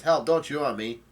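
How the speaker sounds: half-yelled retold protest; retold cry for help. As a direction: voice a character pleading for help, lightly hammed up. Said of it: "Brook yell-, says".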